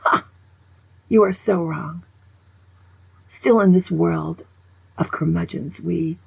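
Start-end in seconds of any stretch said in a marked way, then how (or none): 0.0-0.2 mock laugh. Shown as a demonstration. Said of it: "I'm gonna laugh".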